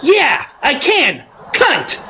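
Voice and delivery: high, falling, deliberate retort with slow pauses; mock-serious comeback, each word set apart; dead serious retort. Friend answering a scolding old lady, retold as dead serious. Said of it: "just, like, this very serious look".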